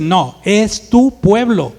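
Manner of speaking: slow, loud, blunt contradiction; insistent God. Acted. God hands the people back to Moses, mildly heated and insistent. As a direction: push back firmly, drawing the words out. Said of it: "Y empieza el alegato".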